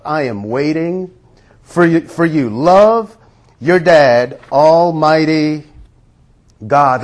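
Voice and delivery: a tender devotional reading, unhurried; reverent letter reading. Acted. Preacher reading God's love letter to the congregation, gentle and intimate.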